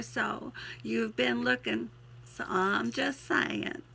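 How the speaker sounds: heartfelt twangy verse reading; twangy poem recital. Acted. Poet promises hurting soul hope, twangy recital. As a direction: recite earnestly with a country twang.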